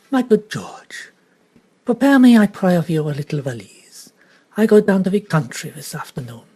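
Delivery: lightly voiced Belgian detective, precise and polite; a hint of Poirot, courteous correction; Poirot's French accent. Detective gently correcting the girl, lightly French. Poirot calls his valet.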